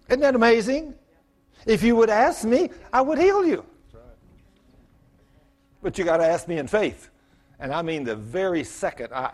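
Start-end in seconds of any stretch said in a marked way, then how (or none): 1.7-3.6 high, loud, ringing promise; God's promise proclaimed. Pretend. Pastor proclaiming God's promise to heal, high and loud. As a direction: proclaim it soaring upward. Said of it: "God saying".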